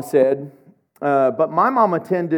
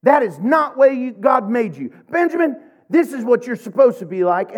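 a touch higher, encouraging parent voice; affirming parent; 6 semitones higher than usual. Retold or imitated. Pastor lightly voicing his parents' affirmations. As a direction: lift him up like a loving mom. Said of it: "they would say".

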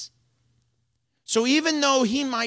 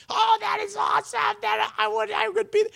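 gleeful exclamation. Retold or imitated. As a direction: burst out in delight. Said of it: "I'm just going".

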